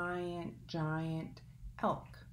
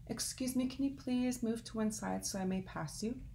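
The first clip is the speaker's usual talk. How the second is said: polite wren; 4 semitones higher than usual. Acted. Wren asks third time.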